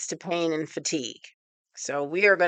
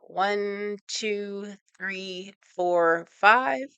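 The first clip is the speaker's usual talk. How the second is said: counting hold; 3 semitones higher, 4 dB quieter, much slower than usual. Shown as a demonstration. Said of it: "hold it for five seconds".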